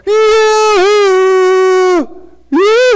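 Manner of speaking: long high yoo-hoo across the yard; mom calling out. Retold or imitated. Mother calling her boy home from the barn, loud high yoo-hoo. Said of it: "and she'd go".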